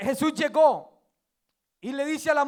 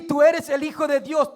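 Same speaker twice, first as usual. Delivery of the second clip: loud proclamation; 3 semitones higher, 5 dB louder than usual. Shown as a demonstration.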